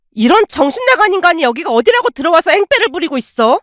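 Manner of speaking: high, fast angry scolding; aunt storming in to throw out her brother, yelling; furious aunt. Acted. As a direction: tear into him, outraged.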